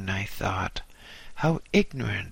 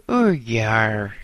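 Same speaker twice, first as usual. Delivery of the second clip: louder, bored Cockney demand; 5 dB louder than usual. Acted. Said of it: "she said".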